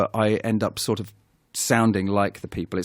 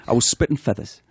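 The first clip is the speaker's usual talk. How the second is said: broad Geordie grumble; Geordie accent. Retold or imitated. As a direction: imitate a Geordie nan. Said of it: "and it goes like this".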